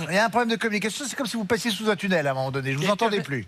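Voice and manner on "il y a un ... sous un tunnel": laughing through the remark; amused, laughing aside. Real, not acted. Laughs at team's mix-up.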